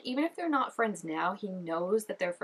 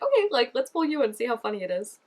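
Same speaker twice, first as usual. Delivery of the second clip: mock taunt; 3 semitones higher, 5 dB louder than usual. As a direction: turn the tables, mockingly. Imagined taunt at laughing guy.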